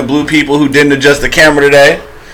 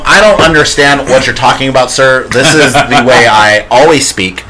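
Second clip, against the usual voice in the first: white voice. Pretend. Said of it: "He wants us to do the white voice".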